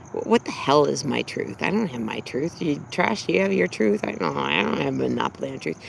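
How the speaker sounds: mock someone denying any truth; mock relativist. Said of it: "as they think".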